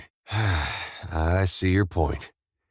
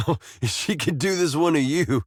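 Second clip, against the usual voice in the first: higher-pitched, laughing into the words; amused laughing; 7 semitones higher than usual. Acted. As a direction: chuckle fondly as you recall it. Recalling a funny impression, amused.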